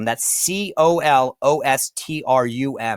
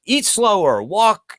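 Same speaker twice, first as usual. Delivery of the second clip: higher-pitched mock health adviser; imitated nagging advice; 7 semitones higher, slower than usual. Host quoting his healthcare professionals' advice, lightly nagging. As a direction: quote the advice in a raised, singsong lilt.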